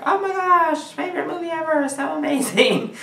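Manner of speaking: high-pitched mock gush; gushing fans. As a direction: imitate overexcited fans in a squealy high voice. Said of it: "most everybody else ... were just like".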